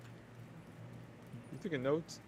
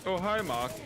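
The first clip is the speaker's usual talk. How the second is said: higher, louder Tommy Wiseau-style greeting; movie quote impression; 8 semitones higher, 5 dB louder than usual. Answering a friend's hi with a movie line, mock impression. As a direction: toss off the famous greeting.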